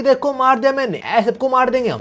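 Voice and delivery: gleeful boast. Retold or imitated. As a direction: play a killer pleased with himself, pitch lifted. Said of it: "माँ बड़ा खुश हो रहा है". (खुशी भरी शेखी, ऊँची आवाज़ में)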